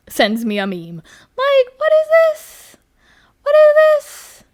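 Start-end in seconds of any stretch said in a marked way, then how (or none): 1.4-4.4 loud, high-pitched incredulous cry; exasperated outburst. Acted. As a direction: shriek it in mock outrage. Acting out upset at getting a meme.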